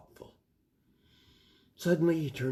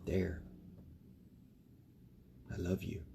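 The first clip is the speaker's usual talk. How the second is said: whispering; 4 semitones lower, 12 dB quieter than usual. Real, not acted. Bedtime goodnight to child.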